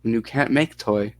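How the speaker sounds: put-on mildly Russian-accented child; hint of a Russian accent. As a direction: answer in broken English with a Russian accent. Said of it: "you like the Russian accent".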